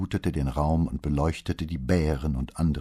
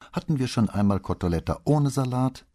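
pursed-lips question; 8 semitones higher, 4 dB louder than usual. A narrator's reading. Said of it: "fragte sie mit spitzen Lippen".

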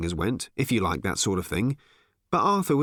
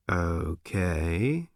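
cautious; 5 semitones lower than usual. Acted. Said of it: "said the barman cautiously".

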